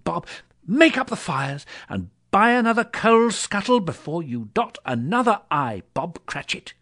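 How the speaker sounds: high, bubbling, generous delight; an old man overflowing with goodwill; joyful Scrooge. Acted. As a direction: Scrooge jubilantly promising Bob help. Joyful Scrooge promising help.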